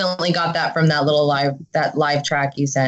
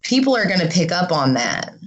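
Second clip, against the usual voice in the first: hungover. Real, not acted. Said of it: "I'm so hungover".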